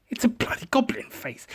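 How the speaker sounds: hushed and conspiratorial; whisper. Real, not acted. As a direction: whisper it like a secret. Whispered after squeal.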